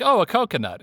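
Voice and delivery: high, mock-startled voice; surprise ghost voice. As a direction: play it dumb and spooked. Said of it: "your surprise ghost voice".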